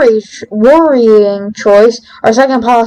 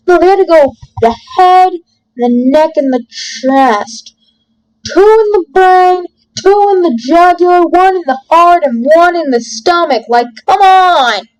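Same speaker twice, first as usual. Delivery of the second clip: raised, exasperated listing; exasperated rant; 5 semitones higher than usual. Real, not acted. Gamer protesting needless detail about where he was shot, exasperated. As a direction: rattle off each item in mock outrage.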